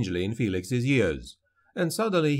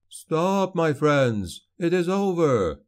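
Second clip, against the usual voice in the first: commanding call; 6 semitones higher, slower than usual. A narrator's reading. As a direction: raise the voice over the battle to stop it. Leader halting the fighting.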